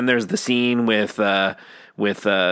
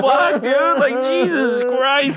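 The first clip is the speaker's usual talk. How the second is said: laughing mock outburst; 12 semitones higher than usual. Telling friends how the cheeseburger line got him, laughing shout. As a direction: laugh it out, overwhelmed. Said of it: "I'm like".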